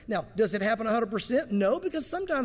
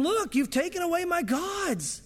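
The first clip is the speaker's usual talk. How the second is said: higher, slow, pleading lament; grieving plea; 4 semitones higher, slower than usual. Retold or imitated. Micah pleads with the Danites, grieving lament. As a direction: plead for what was stolen. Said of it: "he said to them".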